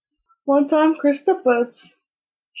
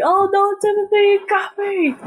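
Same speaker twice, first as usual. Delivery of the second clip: higher, hammed-up defeated villain; playful vacuum voice; 8 semitones higher than usual. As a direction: voice the vacuum giving up, cartoon style. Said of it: "vacuum always gets him like".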